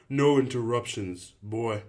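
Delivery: shouting right in his face; angry shout. Acted. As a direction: cut him off with a shout. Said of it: "Albie shouted".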